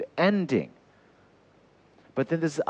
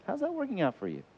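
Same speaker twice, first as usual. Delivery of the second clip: gentle question; 8 semitones higher, 6 dB quieter than usual. Acted. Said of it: "You just graciously go".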